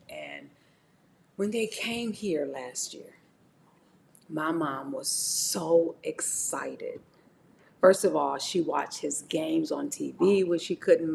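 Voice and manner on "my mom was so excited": slow, hushed memory; tender whisper. Real, not acted. Daughter softly recalling her late mother, hushed.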